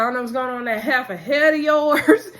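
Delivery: mock insult with laughter breaking in; laughing through an insult. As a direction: laugh your way through the jab. Insult quoted while laughing.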